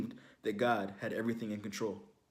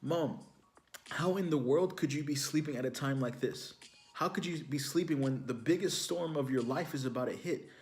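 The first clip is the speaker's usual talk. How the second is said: incredulous son; 3 semitones higher than usual. Retold or imitated. Son asking his mom how she can sleep now, incredulous and pitched up. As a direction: make the disbelief climb. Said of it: "And I said".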